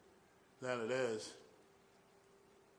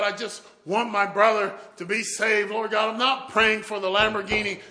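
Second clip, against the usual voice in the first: building from usual level to loud, higher pleading; fervent prayer; 3 semitones higher, 5 dB louder than usual. Acted. Faithful man claiming a verse for his brother, fervent prayer. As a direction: repeat the plea, more insistent each time.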